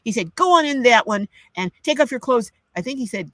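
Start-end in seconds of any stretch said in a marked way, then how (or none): 0.3-2.5 higher and louder, brusque command; curt doctor's order. Retold or imitated. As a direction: order her in without any patience. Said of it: "That's the tone".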